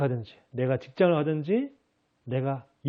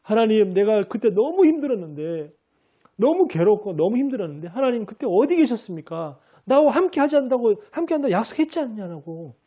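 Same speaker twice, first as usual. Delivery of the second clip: resentful complaint; 5 semitones higher than usual. Retold or imitated. Believer reproaching God in prayer, hurt and resentful. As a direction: accuse God of abandoning you. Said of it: "원망하면서".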